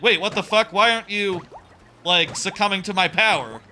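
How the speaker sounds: a demon thrown off that his power fails; shocked demon. Retold or imitated. Demon shocked to see the hero playing in the water. Demon voiced in retold scene.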